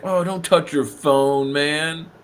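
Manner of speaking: slow, fussy warning; mock germaphobe. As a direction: whine it like a germaphobe. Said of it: "he's like".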